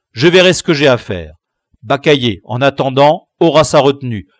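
teacher's verdict. Acted. Teacher ends the matter.

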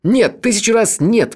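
very high, slow emphatic protest; exclaiming. A narrator's reading. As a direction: cry out in protest. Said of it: "воскликнул он".

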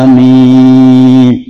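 over-loud amen after the imam; loud drawn-out amin. Shown as a demonstration. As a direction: demo the too-loud amin. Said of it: "Nggak usah keras-keras".

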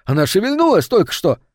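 high, breathless excitement; excited gasp. Acted. Seance sitter stunned as the planchette moves, excited. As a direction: blurt it out amazed the board moved.

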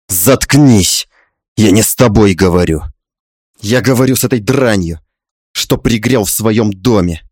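low, understated angry hiss; hissed anger. Acted. Father-in-law silencing his wife, hissed anger. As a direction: rebuke them with low contempt. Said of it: "зашипел он".

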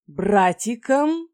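slow, loud, rising stunned echo; shocked disbelief. A narrator's reading. Mother hearing she is pregnant, stunned slow echo. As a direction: drag out the word in disbelief.

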